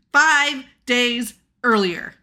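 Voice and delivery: slow, loud ominous read; dramatic reading. Retold or imitated. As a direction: read it like a movie title card. Reading the on-screen caption.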